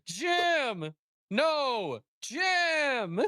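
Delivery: high, flat cries of a friend's name over a dead buddy; mock Neil Breen wail. Imitating a bad actor finding his dead buddy, flat cry. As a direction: ham up a bad actor's grief. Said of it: "In that exact same tone".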